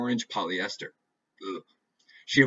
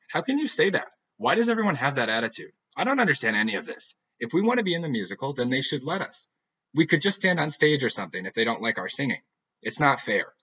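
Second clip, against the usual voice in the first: higher, louder frustrated complaining; upset outburst; 4 semitones higher, 3 dB louder than usual. Acted. Heather ranting to her friend, upset and loud. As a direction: Heather venting her frustration, raised and indignant.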